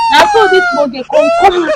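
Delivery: loud, high shout breaking into a cry; excited yell. Acted. Rambling woman yells the monkey story at the stranger, loud high shout.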